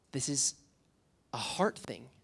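hushed, unvoiced whisper. Real, not acted. Preacher whispers the key point to the youth crowd. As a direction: lean in and breathe the point.

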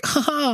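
high-pitched imitated laugh; mock laugh. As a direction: fake a high little "ha ha". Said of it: "You're like".

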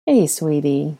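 put-on mildly tender greeting to a toddler; gently. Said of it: "the woman said gently".

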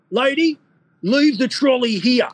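put-on high, slow Cypriot accent giving an order; slow, grand Cypriot accent; Con's accent commanding. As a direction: boss the hostess around in a Cypriot accent. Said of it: "the, the Con accent".

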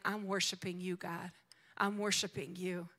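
quiet worship. Pretend. Preacher showing how we come before the Lord, quiet worship. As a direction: pray it softly to God. Models Sunday worship prayer.

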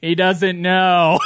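slow, emphatic shout; yelled defence of the driver; exasperated yell. Retold or imitated. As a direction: coworker yells to old lady for the delivery man. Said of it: "And then he goes".

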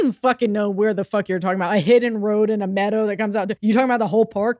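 imitating a baffled guy, fast and exasperated; mock disbelief at a question that makes no sense; a bewildered local scoffing at a vague question; incredulous normal guy. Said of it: "that's what a normal person's reaction would be".

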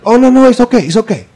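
high, light voice of a cheery dentist; high breezy dentist brushing off the patient's pain; mimicking the dentist. Voicing the dentist.

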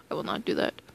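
a private whispered no; whispered aside. Real, not acted. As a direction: mutter it under your breath to yourself. Refusing to do the accent.

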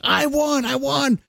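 a coworker crowing that he has won the lottery; mock triumphant yell. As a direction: ham up a lottery winner's victory cry.

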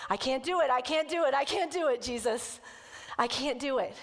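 urgent retold inner plea; retold desperate refusal. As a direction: imitate someone overwhelmed, pleading inwardly. Voicing a woman's panicked inner refusal.

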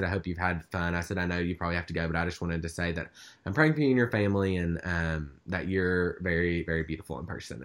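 sincere well-wishing. Retold or imitated. Fan saying goodbye to a celebrity, softly sincere. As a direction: gently offer heartfelt parting words. Retold kind parting words to a celebrity.

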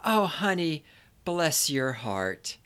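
slow, syrupy Southern put-down; sweetly condescend, drawing out every word; honeyed Southern woman's pity; insult as compliment. Acted. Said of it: "best insults sound like compliments".

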